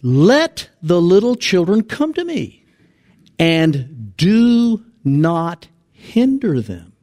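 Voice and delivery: slow, emphatic, drawn-out order; indignant command. Acted. Preacher quoting Jesus to the disciples, indignant. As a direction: weigh out each word as a stern rebuke. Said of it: "he was indignant with them, and he said".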